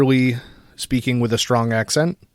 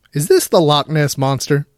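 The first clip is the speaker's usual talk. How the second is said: higher, louder cartoon dad voice; Chef's dad impression; 5 semitones higher, 5 dB louder than usual. Pranking the scam caller with the cartoon dad bit. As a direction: deliver the Loch Ness Monster bit as the cartoon dad. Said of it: "my best impression of Chef's dad".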